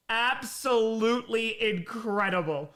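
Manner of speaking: chewing gum. Real, not acted. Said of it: "I'm chewing gum right now".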